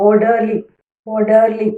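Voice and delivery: ഓർഡർലി with the weight on ഓർ; first-syllable stress. Shown as a demonstration. Teacher repeats an example word, ഓർഡർലി stressed at the start. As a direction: stress the opening syllable of ഓർഡർലി each time. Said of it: "first സിലബിളിലായിരിക്കും".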